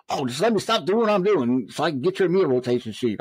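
retold testy comeback, pitch lifted; mock irritation. Irritated lieutenant asked for the rotation sheet, mock-testy.

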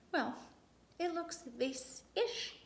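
slow, bright, drawn-out vase-ish; exclaimed. Acted. Sister cheering up her brother, slow excited exclaim. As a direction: sell the word vase-ish, sister encouraging. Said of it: "she exclaimed".

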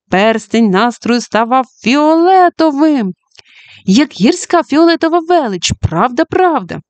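lightly voiced girl, wonder rising; Judy's inner voice. Judy watching her mood ring change, lightly voiced wonder. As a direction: let dismay turn to delight.

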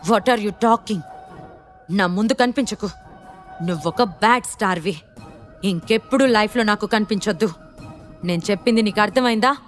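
serious. Acted. Gentil telling Sanvi never to appear again, serious. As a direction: lay down a stern warning. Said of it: "సీరియస్గా అన్నాడు".

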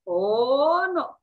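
long rising oh, then no; hen's drawn-out, emphatic refusal; refusing hen. Acted. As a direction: draw out the refusal. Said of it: "says the hen".

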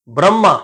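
ਬ੍ਰਹਮਾ as bramma, r straight after b; joined br onset. Shown as a demonstration. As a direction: run b and r together in ਬ੍ਰਹਮਾ. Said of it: "ਉਚਾਰਨ ਕਰਨ ਲੱਗਿਆਂ ਨੂੰ".

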